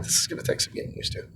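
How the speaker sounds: breathy whisper tossed off to himself; whispered aside. Real, not acted. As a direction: drop to a quick private whisper. Aside about missing hat brim.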